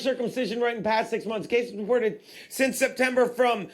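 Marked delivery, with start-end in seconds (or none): none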